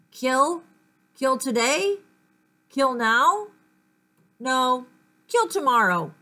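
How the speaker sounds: slow sinister hunger behind each kill; murderous thoughts. Acted. An unseen killer's thoughts overheard in class, mildly menacing. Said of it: "sounded like somebody was plotting a murder".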